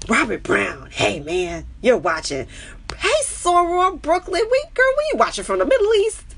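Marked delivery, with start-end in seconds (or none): 3.0-6.2 high, loud, gleeful call to a friend; excited greeting. Real, not acted. Streamer calling out to a sorority sister, thrilled. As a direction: shout hello across the room.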